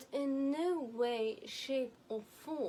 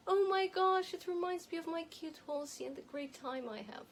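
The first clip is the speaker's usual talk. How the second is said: gushing daughter; 5 semitones higher than usual. Acted. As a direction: lightly act a delighted horse-loving girl. Voices friend's daughter gushing over saddlebags.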